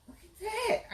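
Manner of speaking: high laughing delight. Real, not acted.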